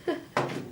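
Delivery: brief, soft chuckle; small laugh. Real, not acted. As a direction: let out a quiet little laugh. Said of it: "I'm laughing".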